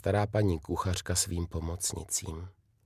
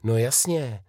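higher, louder happy burst; cheering; 7 semitones higher, 4 dB louder than usual. A narrator's reading. Karolína recognising her uncle, excited cheer. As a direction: jump on it with joy. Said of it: "zajásala Karolína".

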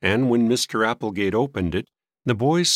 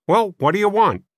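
higher, louder impatient demand; testy old man; 10 semitones higher, 6 dB louder than usual. A narrator's reading. Old man asking boys their business, testy.

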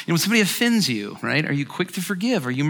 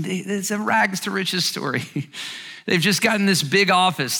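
ordinary talk

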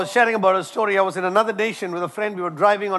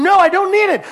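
insistent refusal; 10 semitones higher, 7 dB louder than usual. Retold or imitated. Shocked driver refusing help.

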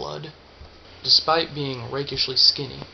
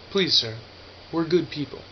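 robotic. A narrator's reading. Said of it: "The suit said this robotically".

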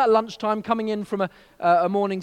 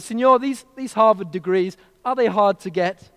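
put-on Mexican accent; 2 semitones higher, 6 dB louder than usual. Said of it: "Mexican accent".

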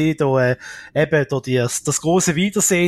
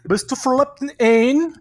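high American host question; American accent in German; 9 semitones higher than usual. Retold or imitated. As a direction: echo it as an American talk host. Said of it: "mit einem amerikanischen Akzent der Sendung".

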